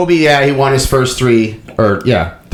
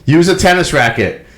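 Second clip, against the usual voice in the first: mock heckle from the stands, starting mild; lightly imitating a fan's first taunt; heckling fan; 3 semitones higher than usual. A fan taunting the player from the stands, mild mock heckle. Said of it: "what the fan was saying to him".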